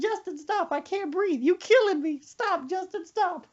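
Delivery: high, wheezing plea through laughter; grandma breathless laughing. Retold or imitated. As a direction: beg him to stop while you can't breathe. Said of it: "She said".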